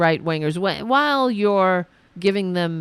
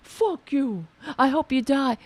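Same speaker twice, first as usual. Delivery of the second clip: mock angry man; 6 semitones higher than usual. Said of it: "you're like".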